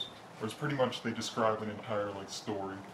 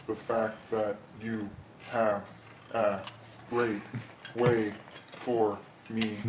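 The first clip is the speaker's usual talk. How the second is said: slow word-by-word reading; slower than usual. Retold or imitated. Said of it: "it would be something like".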